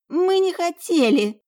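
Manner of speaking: high, slow cry of denial; pleading protest. A narrator's reading. Younger twin protesting to her sister, pleading. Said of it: "Сафира покосилась на сестру".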